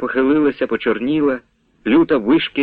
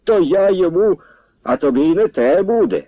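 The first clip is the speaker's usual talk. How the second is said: angry retort; 8 semitones higher than usual. A narrator's reading. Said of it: "лютився Яків".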